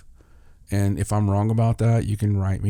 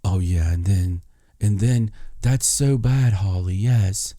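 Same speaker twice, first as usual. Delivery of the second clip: a hint of a breathy, gushing sweet-talker; lightly voiced fake-gentle flatterer; half-whispered mock tenderness; mocking his soft public voice. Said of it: "he talks like this".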